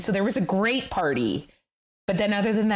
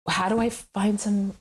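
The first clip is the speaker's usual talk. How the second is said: rising higher into a laugh; laughing exasperation, pitch climbing; exasperated laughing plea; 9 semitones higher than usual. Retold or imitated. Retold frustrated plea to a friend.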